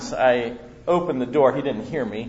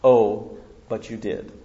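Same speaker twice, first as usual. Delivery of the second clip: calm knowing reply; 4 semitones lower than usual. Retold or imitated. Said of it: "this is what he said".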